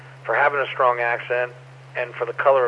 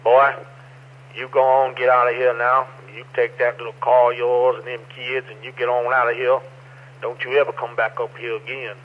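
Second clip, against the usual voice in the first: lightly acted hillbilly warning in mountain accent; a hint of backwoods hillbilly accent; strong Appalachian accent. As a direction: warn off trespassers like an Appalachian hillbilly. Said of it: "the accent's real strong".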